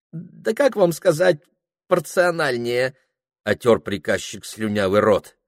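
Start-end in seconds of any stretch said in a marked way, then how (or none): 0.1-3.0 put-on high, fussy voice of a drunk clerk dodging; flustered young clerk. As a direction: squeak out an excuse, much higher. Ilya drunk. (высокий суетливый голос смущённого приказчика)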